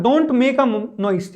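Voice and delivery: every word drawn out, very slow; very slow dictation. Shown as a demonstration. Teacher dictating an example sentence to students, very slow. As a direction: spell it out slowly for learners.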